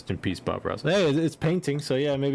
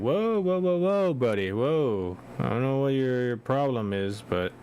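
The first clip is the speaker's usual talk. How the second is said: calming someone down. Retold or imitated. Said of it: "you're gonna be like".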